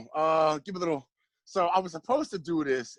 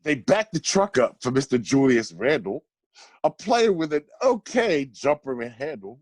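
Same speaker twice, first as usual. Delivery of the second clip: measured rhyming recital, landing each rhyme; spoken poem. Real, not acted. Friend reading a birthday roast poem about the Knicks, spoken poem. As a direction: read out a mocking verse with deliberate phrasing.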